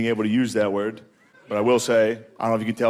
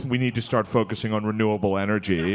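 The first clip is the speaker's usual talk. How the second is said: mimicked liberal dad; 5 semitones lower than usual. Mimics an MSNBC dad at dinner.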